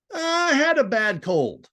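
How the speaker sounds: high, slow mystical clairvoyant; lightly voiced mysterious fortune teller. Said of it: "mysterious, dark voice, the voice of a fortune teller".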